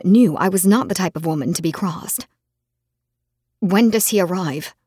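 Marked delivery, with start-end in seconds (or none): 3.6-4.7 talking through gritted teeth. Acted. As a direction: clench the jaw and push it out. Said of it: "I asked through gritted teeth".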